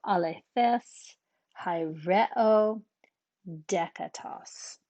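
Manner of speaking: alethes, hyreo, dekatos read slowly, each stressed on its accented syllable. Shown as a demonstration. Teacher reads example words slowly, stressing the accented syllable. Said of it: "just put the stress wherever the accent is".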